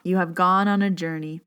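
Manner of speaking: composed again after choking up; gathered, even meditation voice; steadied meditation read. Real, not acted. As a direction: restart the line calmly. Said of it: "Can't even say the first line".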